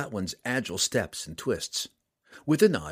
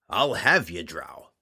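loud gruff threat with falling end; loud growl; 4 semitones lower, slower than usual. Acted. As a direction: snarl it across the room. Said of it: "growled again quietly".

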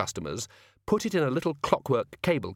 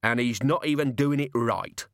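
put-on grumbling old man. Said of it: "Mister Crumley heard him add".

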